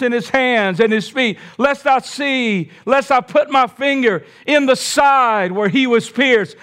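defiant. Acted. Doubting Thomas refuses.

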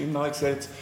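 tongue-in-cheek mock conviction; ironic. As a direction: say it deadpan-ironic, as if obviously true. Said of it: "man kann jetzt Ironie".

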